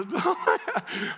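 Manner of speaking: hammed-up burst of sobbing; mock blubbering. Husband in the driveway after the movie, mock blubbering. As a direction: imitate breaking down in tears. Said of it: "if I start talking, I'm".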